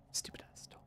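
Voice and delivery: under-breath annoyed whisper. Real, not acted. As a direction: hiss it to yourself in annoyance. Annoyed mutter.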